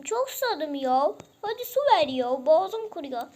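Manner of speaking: thirsty pet voice. Pretend. Pet Cesur begs owner for water, whiny.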